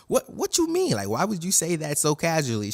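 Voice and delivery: high-pitched mock alarm, easing off; shocked disbelief. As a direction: react aghast to a casual threat. Nami shocked by a torture threat.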